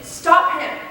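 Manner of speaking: loud, high shouted command; father yelling to stop someone; urgent shout. Acted. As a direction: shout it at the television. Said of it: "my father shouted at the television".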